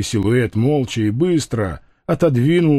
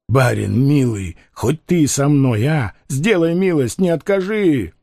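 lightly voiced desperate gypsy, begging; pleading convict. Gypsy begs Werner to go with him, lightly voiced desperation. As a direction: plead not to die alone, voice climbing.

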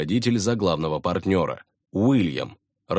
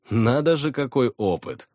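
higher, feigned astonishment; mock surprise; 5 semitones higher than usual. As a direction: play at being amazed. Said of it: "Тут я изобразил удивление".

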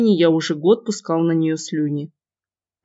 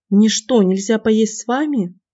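indignant protest; 4 semitones higher than usual. Acted. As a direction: protest like an offended sister. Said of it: "начала возражать эта заноза".

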